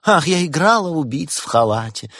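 high, wistful actress; smiling reverie; dreamy. A narrator's reading. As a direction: sigh it out with theatrical nostalgia. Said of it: "мечтательно улыбнулась актриса".

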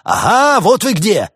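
high, loud discovery cry; frantic high exclamation; triumphant yell. A narrator's reading. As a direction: shout out on catching someone. Dealer spots eavesdroppers, seeks rescue.

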